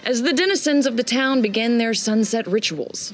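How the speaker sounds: measured scene-setting narrator voice; story narration. Acted. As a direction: paint the city at sunset for the players. GM sets the opening scene.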